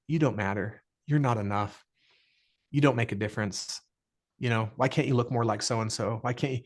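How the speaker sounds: understated inner critic putting you down; critical inner voice. Retold or imitated. Voice of limitation speaking.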